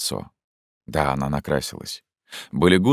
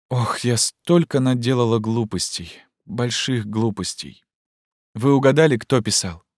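put-on agitated young woman; 7 semitones higher than usual. Zhenya confronts Fyodor Ivanovich about the order, urgently. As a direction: voice raised higher, urgent and pleading.

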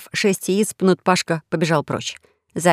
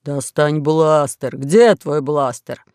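slow low pirate voice; 3 semitones lower, much slower than usual. Acted. Fat pirate pleads under dinosaur.

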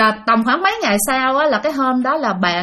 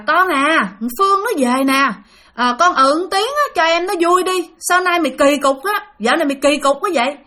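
higher-pitched, lightly acted urging; retold coaxing; 5 semitones higher than usual. Aunt urges her silent niece to greet the visitor, acted coaxing. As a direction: plead with a stubborn niece to answer. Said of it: "dì Năm muốn rằng á".

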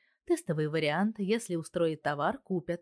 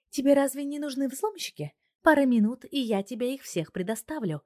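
higher, louder, proud offer; confident wife; 8 semitones higher, 4 dB louder than usual. A narrator's reading. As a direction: show off what she can do. Wife boasting about her program. (уверенно и гордо, женский голос)

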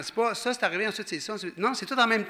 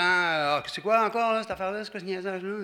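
a touch of annoyed whining, pitch up on quoi; mock grumbling complaint. The preacher mimics a grumbling believer with mild annoyance. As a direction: grumble like you're fed up with the request. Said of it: "si tu viens en disant".

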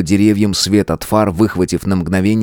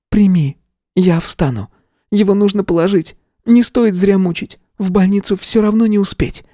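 much higher, firm instructions; firm witch; 12 semitones higher than usual. A narrator's reading. Tanya firmly instructs Nick. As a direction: instruct calmly.

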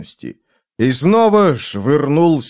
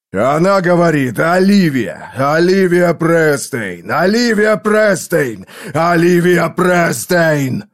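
urgent insistence; 4 semitones higher, slower than usual. Acted. Repeated insistent name.

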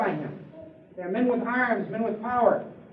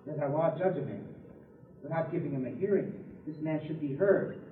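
timid objection; 7 semitones lower, 8 dB quieter than usual. Acted. Nicodemus's timid objection retold.

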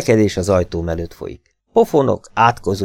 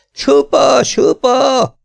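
high, loud, strained yell; man shouting; 5 dB louder, much slower than usual. A narrator's reading. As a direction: yell it out in alarm. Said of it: "Egy férfi hang kiabál". (férfihangon kiabálva)

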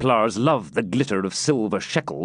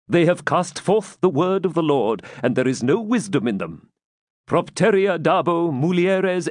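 raised-pitch churchman intoning Latin scripture; sanctimonious prior; 6 semitones higher than usual. A narrator's reading. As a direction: pronounce scripture at him, then gloss it. Prior quotes and translates scripture.

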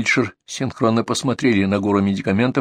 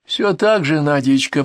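higher-pitched creaking granny voice; creaky old woman; 5 semitones higher, slower than usual. Acted. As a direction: creak it out like an elderly patient. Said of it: "проскрипела старушка".

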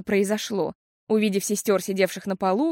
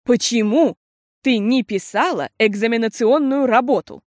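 louder, stern question, stress on ты; serious; 2 semitones higher, 6 dB louder than usual. A narrator's reading. Mother seriously asks daughter about her exam. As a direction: ask gravely, weighing each word. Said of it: "серьёзно спросила мама".

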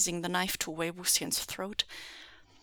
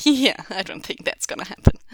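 snorting amusement; 10 dB louder than usual. Acted. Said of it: "The man snorted".

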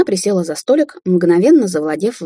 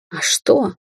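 sudden indignant flare, a touch higher; flaring up; 6 semitones higher than usual. A narrator's reading. Mother flaring up at her daughter's accusation. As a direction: bristle up at once. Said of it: "взвилась Цитрин".

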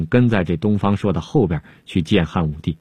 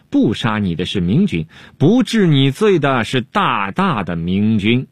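animated pleading; 5 semitones higher than usual. Acted. Animated storytelling to emperor.

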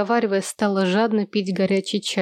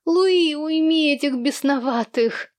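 angry shout from upstairs; furious shout; 6 semitones higher, slower than usual. A narrator's reading. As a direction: rage at the noise. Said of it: "кипя от ярости и раздражения".

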